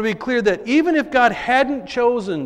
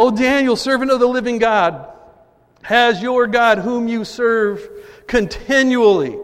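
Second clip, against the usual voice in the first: anguished cry; 4 semitones higher, 4 dB louder than usual. Acted. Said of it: "he cried out in a tone of anguish".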